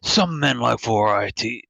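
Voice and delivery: lightly voiced sly shopkeeper; a hint of a sly merchant pitch; Resident Evil Four merchant. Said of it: "Resident Evil Four merchant voice".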